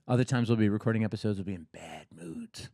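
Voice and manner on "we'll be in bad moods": slow, hushed, low mock gloom; mock bad mood. Shown as a demonstration. Podcast host jokes to listeners about off days, mock bad mood. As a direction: drop low and drag it out, playing grumpy.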